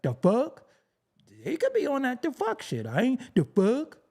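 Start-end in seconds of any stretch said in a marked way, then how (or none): 0.0-0.6 mimicked question with rising end; imitating girls. Quoting girls he knew, mock rising question. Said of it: "I knew girls who be like". 3.3-4.0 mock question, rising at the end; imitating girls' slang. Mocking slang he refuses to use, mimicked rising question. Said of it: "I knew girls who be like".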